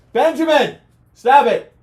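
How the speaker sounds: sharp loud call to stop Benjamin; real scolding shout. Real, not acted.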